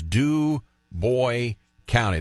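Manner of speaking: put-on Du Bois said as doo-BOY, no final S; local pronunciation. Shown as a demonstration. Host checking the county name, Du Bois as doo-BOY. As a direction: land on BOY in Du Bois, silent S. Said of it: "That's the way you pronounce it".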